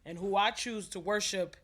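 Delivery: measured spoken-word delivery with weighted pauses; poetry recitation. Acted. Poet reciting to an audience about an absent father, measured spoken word. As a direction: recite it line by line, letting each phrase land.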